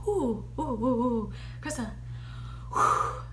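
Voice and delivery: choked-up ooh sounds on the edge of tears; fighting back real tears; about to cry. Real, not acted. Vlogger overcome remembering her old self-talk, choking up. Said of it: "I might cry".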